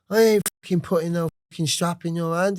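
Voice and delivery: high, firm voicing of his dad; dad's stern refusal. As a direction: play the dad shutting his son down.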